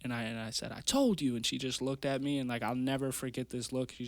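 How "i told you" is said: mildly re-enacted yell, pitched up; retold scream. Fighter retelling his yell at his mom, mild high shout. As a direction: half-shout it, higher than your talk. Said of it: "and I scream at her".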